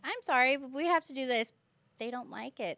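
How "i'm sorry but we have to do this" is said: apologetic teacher. Retold or imitated. Teacher's retold reply to objecting students.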